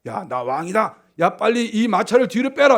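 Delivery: mock royal yell, starting restrained; imagined king's shout. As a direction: act out a wounded king calling out. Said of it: "소리를 쳤겠죠".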